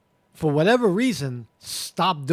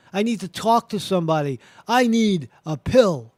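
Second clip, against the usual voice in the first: acted freaking out; 3 semitones higher, 4 dB louder than usual. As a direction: act out someone panicking about their own thoughts. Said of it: "that's called freaking out".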